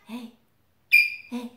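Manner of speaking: parrot imitation. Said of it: "He told me".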